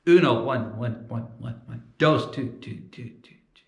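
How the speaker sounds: fading whispered echo; Spanish then English echo; translating echo. Shown as a demonstration. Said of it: "Google Translate microphone".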